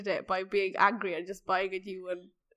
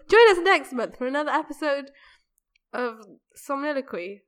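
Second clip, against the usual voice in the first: announcer voice; 3 semitones higher, 5 dB louder than usual. Acted. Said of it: "The outro".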